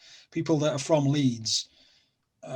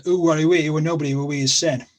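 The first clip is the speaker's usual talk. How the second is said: Sheffield dialect demo; 5 dB louder than usual. Shown as a demonstration. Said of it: "So if I said to you".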